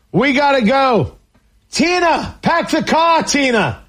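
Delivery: a light Boston accent, mock panicked worrier; hammed-up Boston-accent worrier who is in a rush to leave. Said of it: "I dipped into a Boston accent".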